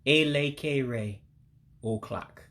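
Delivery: drawn-out, evenly spaced syllables; slow, careful model word; slow demonstration. Shown as a demonstration. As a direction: say it slow for learners. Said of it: "I'll say it slow".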